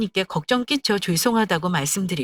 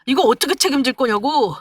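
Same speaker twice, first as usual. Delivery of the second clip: high-pitched acted yelling in outrage; furious yelling; 5 semitones higher, 4 dB louder than usual. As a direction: yell at the fiancée like an enraged boyfriend. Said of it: "개거품을 물면서 소리를 지르는 겁니다".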